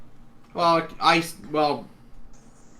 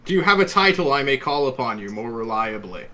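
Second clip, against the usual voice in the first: regal voice; 3 semitones higher, 5 dB louder than usual. Acted. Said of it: "regal voice".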